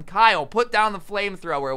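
a touch of an urgent yell; retold yell. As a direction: call him out by name. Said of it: "I'm yelling at him".

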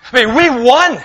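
joyful shout of we won; triumphant shout. Shown as a demonstration. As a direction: shout it like you just won the war. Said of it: "to shout in triumph when you win".

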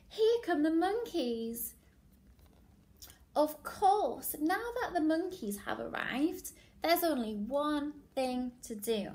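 lively, emphatic picture-book narration; story reading to children. Acted. Teacher reading a favourite animal book to class, animated storytelling. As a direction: read it to little ones, drawing out key words.

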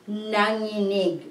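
"nanginig" slowly, as na, then nginig; "nanginig" drawn out in slow syllables. Shown as a demonstration. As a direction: sound out "nanginig" carefully for learners. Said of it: "when you go by syllable".

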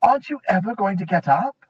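shouted wake-up call; loud call. A narrator's reading. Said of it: "shouted Jill in a loud voice".

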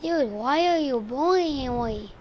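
badly faked child voice; fake little kid. Troll accuses stranger of bullying, badly faked kid voice. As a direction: play a picked-on kid, unconvincingly. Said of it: "your impression is so bad".

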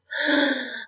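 quick shocked intake of breath; sharp gasp. A narrator's reading. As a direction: gasp in alarm. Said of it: "she gasped".

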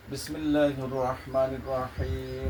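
drawn-out solemn invocation; slow recitation. Real, not acted. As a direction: stretch every syllable slowly. Slow invocation before treatment.

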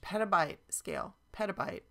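"petabyte" punched as the key word, then repeated alone; stress on petabyte. Real, not acted. Presenter reading out a product blurb, emphasizing "petabyte". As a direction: lean on the word "petabyte" both times. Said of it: "I'm emphasizing the word petabyte".

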